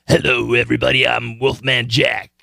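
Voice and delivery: cool late-night DJ voice, lightly done; a hint of the smooth radio DJ; Wolfman Jack. DJ impression for the class in a cool radio voice. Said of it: "something like that".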